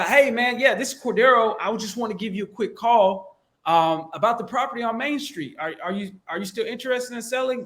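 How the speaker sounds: energetic, high-pitched cold call opener; matching loud caller. Shown as a demonstration. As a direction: raise your voice to meet a loud guy. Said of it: "And you get a loud guy".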